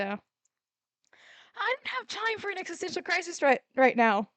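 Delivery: dramatic diva. Acted. Dramatic brush-off in character voice.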